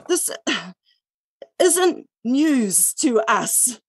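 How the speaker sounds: slow, tired, sighing through the words; worn out by being unheard, slowing right down; weary sigh. Real, not acted. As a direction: let the fatigue weigh each word down. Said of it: "It's kind of tiring".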